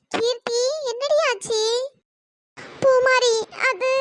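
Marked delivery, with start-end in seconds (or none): 2.8-3.9 starting to speak, breaking into sobs; tearful, unable to get the words out; crying. Acted. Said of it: "எதுக்குடி அழுகுற".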